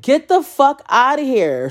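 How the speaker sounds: drawn-out, high-pitched mock disbelief; retold disbelief. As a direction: re-enact refusing to believe it, slow and high. Reacting to a positive covid test.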